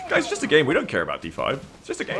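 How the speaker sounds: high, mock-sincere irony; ironic. Shown as a demonstration. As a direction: say it tongue in cheek.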